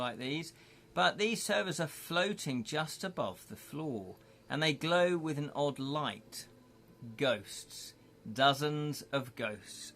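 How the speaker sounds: measured storyteller read of a spooky castle; story narration. Acted. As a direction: set the scene for the listener, unhurried. Reads gamebook scene aloud.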